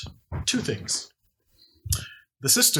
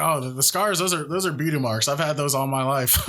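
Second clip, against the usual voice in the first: sarcastic; 3 semitones higher than usual. Acted. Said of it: "she's being sarcastic".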